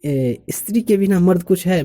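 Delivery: "स्त्री के बिना मर्द कुछ है" high and unbroken; imply nothing by "मर्द कुछ है", no pause after बिना; challenging rhetorical question. Shown as a demonstration. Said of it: "मतलब मर्द कुछ नहीं है".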